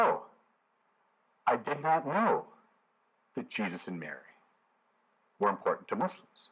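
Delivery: half-hearted Freeman impression despite saying he won't; Morgan Freeman voice. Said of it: "That's his speaking voice".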